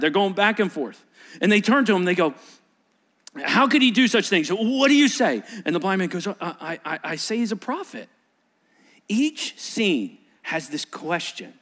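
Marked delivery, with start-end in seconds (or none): 3.4-5.4 loud, high demand; Pharisee interrogating. Acted. Pharisees pressing the healed man, loud and high. 6.3-8.1 stammering with a soft laugh; nervous answer. Acted. Healed man answering Pharisees with a nervous laugh.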